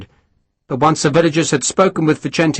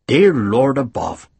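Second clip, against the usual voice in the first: pious; slower than usual. A narrator's reading. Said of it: "Harper said piously".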